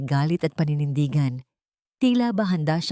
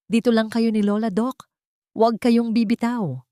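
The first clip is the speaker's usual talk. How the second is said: a protector's urgent command in the fire; commanding order; 5 semitones higher than usual. A narrator's reading. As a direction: give the order with full authority. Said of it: "Ito ay isang utos na puno ng kapangyarihan".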